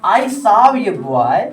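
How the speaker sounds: each word drawn out; deliberate teacher demo; slow model sentence. Shown as a demonstration. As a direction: say it slowly for students to copy. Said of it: "देखिए".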